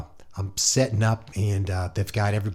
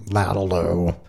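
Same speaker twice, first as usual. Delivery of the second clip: slurred, run-together mumble; lightly imitated garbled musician; grumbling Ray; 3 semitones lower than usual. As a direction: mumble it as one blurred word. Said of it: "grumbling in the background".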